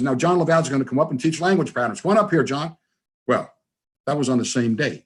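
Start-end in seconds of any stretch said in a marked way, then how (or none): 0.0-2.8 announcing into microphone. Retold or imitated. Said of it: "grabs the microphone and says".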